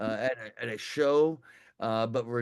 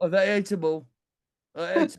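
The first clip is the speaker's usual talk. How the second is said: higher-pitched, half-landed attempt at an Australian accent; 6 semitones higher, 4 dB louder than usual. Repeating the guest's word 'edible': attempted Australian accent. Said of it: "I'm trying to get my a-, uh, Australian accent".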